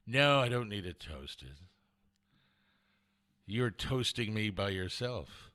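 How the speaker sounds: low, slowing, lovestruck answer; smitten reply. Retold or imitated. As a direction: play the charmed customer, melting. Smitten customer answers sweet server.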